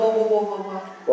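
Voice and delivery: teasing the answer one syllable at a time; prompting syllables. Shown as a demonstration. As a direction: sound out the first syllable to prompt the class. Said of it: "Does anybody know what that's called?".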